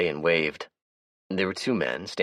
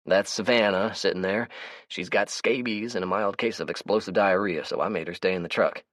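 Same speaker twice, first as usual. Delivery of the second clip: higher, brighter character voice; Melvin's voice; 4 semitones higher than usual. Acted. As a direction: play the chatty, easygoing Melvin. Melvin voices his lines.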